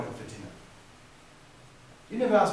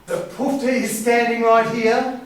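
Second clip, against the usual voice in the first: louder and higher, stung; indignant retort; 8 semitones higher, 9 dB louder than usual. Acted. Michael confronting the siblings who insulted him, loud and indignant. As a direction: throw the insult back at them.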